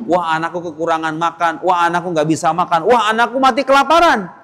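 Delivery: spiral from fretting to a hammed-up cry; panicking mother. Mother imagining her son starving, building mock panic.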